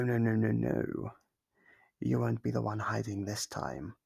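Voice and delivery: ordinary delivery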